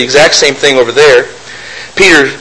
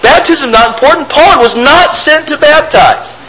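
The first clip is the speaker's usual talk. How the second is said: raised, mocking voice of a know-it-all critic; mocking opponent voice; 9 semitones higher than usual. Preacher mimics religious friends who dismiss baptism, mocking high voice. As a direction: sneer it as the other side would. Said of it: "And they'll say".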